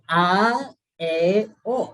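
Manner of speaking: stretched "A, E, O" with jaw dropped; over-articulate "A", "E", "O" slowly, each vowel wide open; exaggerated articulation. Shown as a demonstration. Teacher showing students tongue and palate apart, exaggerated open vowels. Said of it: "parece chistoso, eh, la gesticulación que uno hace".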